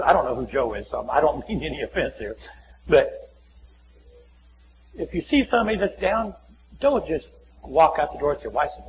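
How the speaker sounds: ordinary delivery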